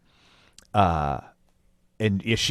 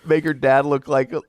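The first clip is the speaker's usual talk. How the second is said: laughing; 5 semitones higher, faster than usual. Real, not acted.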